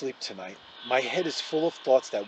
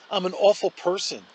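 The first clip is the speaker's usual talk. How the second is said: a touch of tearful strain, louder; through tears; 6 semitones higher, 6 dB louder than usual. A narrator's reading. Olivia confesses to Justin, mildly tearful. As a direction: push the words out past the tears. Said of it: "she says through her tears".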